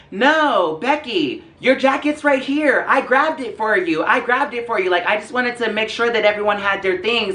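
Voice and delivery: high-pitched mock girly voice; Becky's friend. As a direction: pipe up high as the skank friend explaining herself. Acted friend piping up to Becky.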